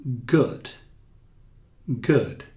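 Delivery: "Good" with a short clipped vowel; quick short u. Shown as a demonstration. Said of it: "Diferente de bom".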